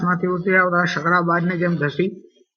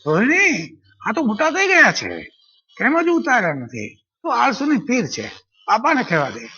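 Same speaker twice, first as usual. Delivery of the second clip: calling out playfully; 4 semitones higher than usual. Acted. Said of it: "હું જાણે બૂમ મારતો".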